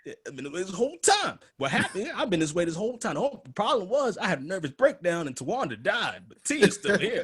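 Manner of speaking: loud, high hammed-up persona; over-the-top mock-defensive character; new personality. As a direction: insist on it in a silly high voice. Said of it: "this is my new personality".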